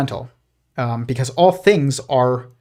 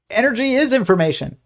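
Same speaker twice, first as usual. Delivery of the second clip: higher squeaky cartoon bickering; arguing cartoon physicist; 9 semitones higher, faster than usual. Cartoon physicist arguing with another, higher insistent voice. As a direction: play a cartoon scientist insisting, pitched up. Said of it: "he's like".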